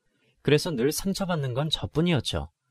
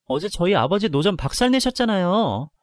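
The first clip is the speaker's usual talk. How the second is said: louder, higher furious accusation; angry accusation; 5 semitones higher, 4 dB louder than usual. Acted. Daughter-in-law confronting father-in-law over the stall, angry. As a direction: throw the blame at him, furious. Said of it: "너무 화가 나서 시아버지에게 바로 달려가 따졌습니다".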